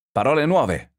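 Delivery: high, emphatic exclamation; cried out. A narrator's reading. Answering the two frightened men, crying out.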